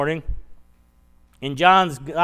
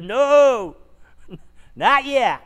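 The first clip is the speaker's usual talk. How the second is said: gentle laughing no; 7 semitones higher, 4 dB louder, much slower than usual. Acted. Jesus gently stopping Mary's hug.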